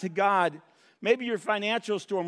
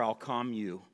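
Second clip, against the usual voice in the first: gentle answer; 9 semitones lower, 6 dB quieter than usual. Acted. Answer voiced as the Lord.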